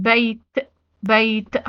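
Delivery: "بيت" stopped on a released t sound; final ت as T. Shown as a demonstration. Teacher showing pupils the open taa, final t sounded in "بيت". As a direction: end "بيت" on a clear, vowelless t. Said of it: "اتنطق التاء زي ما هي".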